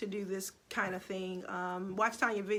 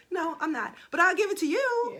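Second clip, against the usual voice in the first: higher, louder, laughing with a catch of tears; laughing, teary reply; 9 semitones higher, 7 dB louder than usual. Retold or imitated. Retelling her answer to her sister, laughing and teary. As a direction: laugh it out, half crying.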